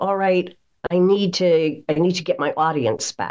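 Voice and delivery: normal talking voice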